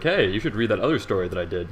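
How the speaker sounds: ordinary delivery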